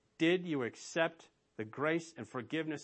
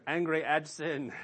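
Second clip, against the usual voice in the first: laughing; 2 semitones higher, 6 dB louder than usual. Real, not acted. Laughing after traffic joke.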